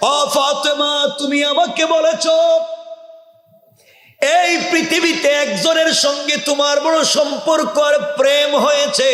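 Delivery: high, tearful, crying voice.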